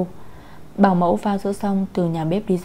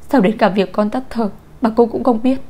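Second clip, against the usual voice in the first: raised, accusing demand building to a shout; distraught accusation; 3 semitones higher, 6 dB louder than usual. A narrator's reading. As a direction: lash out in blame, ending loud. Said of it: "chỉ mũi dùi về phía bảo mẫu".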